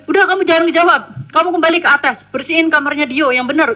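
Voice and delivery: mock ordering a maid around; retold bossy order. Acted employer ordering her about.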